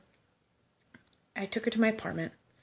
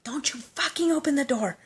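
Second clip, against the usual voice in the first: mild mock yell; 7 semitones higher than usual. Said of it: "So I yelled at her".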